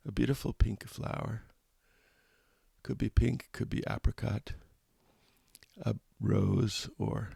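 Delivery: calm guided-meditation voice with long pauses between phrases. Real, not acted. Meditation teacher invites listeners to smile gently and breathe, calm guided meditation. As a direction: gently lead listeners inward, leaving space after each phrase.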